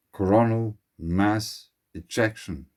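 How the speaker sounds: "mass" set apart between "Coronal" and "ejection"; stress on MASS. Real, not acted. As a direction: say the term word by word, weighting "mass". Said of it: "emphasize the second word of this three-word name".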